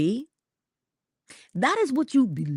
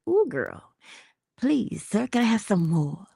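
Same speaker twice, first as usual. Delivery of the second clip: mock pleading; 3 semitones higher than usual. Acting man begging for more food.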